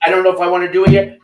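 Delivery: mock hesitant quote. Coach mimicking the guest's hesitation back at him, quick and mocking. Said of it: "the way you said".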